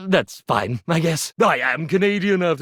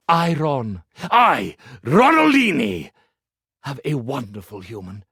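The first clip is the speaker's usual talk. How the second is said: reading the final lines; 3 semitones lower than usual. Acted. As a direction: read the ending as if it moves you deeply. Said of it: "I'd like to read you just the last few lines".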